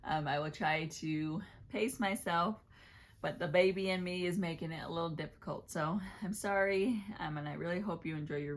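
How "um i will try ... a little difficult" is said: winded, hurried between breaths; gasping for air. Real, not acted. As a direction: pregnant and short of breath. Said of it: "I sound like I'm gasping for air".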